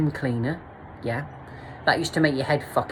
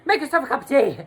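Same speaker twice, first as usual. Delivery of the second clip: mock high camp voice, much higher and louder; a hammed-up flustered host; 9 semitones higher, 5 dB louder than usual. Retelling a high host offering tea, camp voice. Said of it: "he was like".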